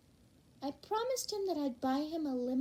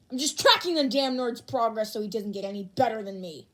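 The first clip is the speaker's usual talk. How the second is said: louder, defensive snapping; irritated shout; 6 dB louder than usual. Acted. Bakugo denying he watches Deku, irritated shout. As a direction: bite back, annoyed and defensive.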